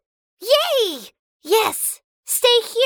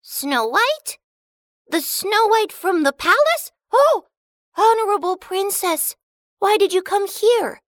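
high, astonished squeaky dwarf; amazed dwarf; 10 semitones higher than usual. Acted. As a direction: gasp in awe at the princess.

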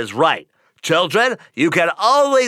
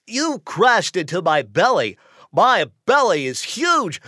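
usual speaking voice

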